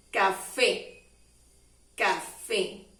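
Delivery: "Café" in two clear syllables, stressed on "fé"; fuerza en la E. Shown as a demonstration. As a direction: lean on the final é of "Café". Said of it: "hacemos más fuerza en la E". ("Café" marcando la "é" final)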